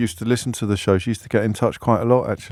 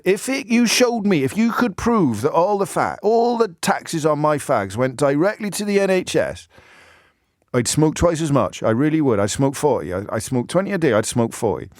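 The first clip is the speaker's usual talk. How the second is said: put-on Bob's strange accent; 6 semitones higher than usual. Host retelling Bob's words in a mock mixed accent. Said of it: "he had this quite a strange accent".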